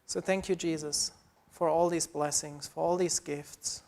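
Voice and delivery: earnest, steady prayer voice; a gently lifted prayer of thanks; closing prayer. Acted. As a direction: thank God sincerely for the congregation.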